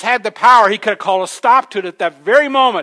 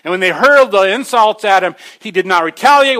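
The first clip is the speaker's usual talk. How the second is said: ordinary talk, nothing marked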